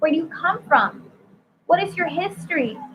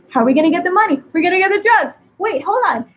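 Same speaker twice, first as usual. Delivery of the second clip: mock urgency; 5 semitones higher, 5 dB louder, faster than usual. Voicing money-hungry people in songs.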